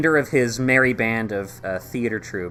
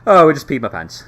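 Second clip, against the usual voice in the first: scared goblin; 4 semitones higher, 11 dB louder than usual. Acted. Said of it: "He's like".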